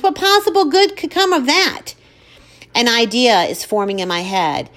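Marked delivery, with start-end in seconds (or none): 0.0-1.9 high incredulous question; aghast. Acted. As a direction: sound scandalised. Mother aghast.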